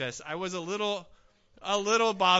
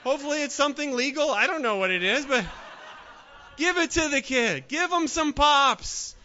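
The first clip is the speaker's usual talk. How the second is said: louder, higher, laughing protest; laughing plea; 5 semitones higher, 6 dB louder than usual. Retold or imitated. Preacher jokingly pleads for the crying boy, laughing. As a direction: laugh while telling them to give it. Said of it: "I'm like".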